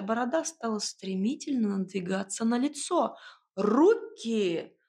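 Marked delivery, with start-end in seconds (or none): 3.6-4.8 хриплый возмущённый окрик; одёрнуть нахала хрипом; возмущённо прохрипеть. A narrator's reading. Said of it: "в возмущении прохрипела я". (возмущённо, с хрипом)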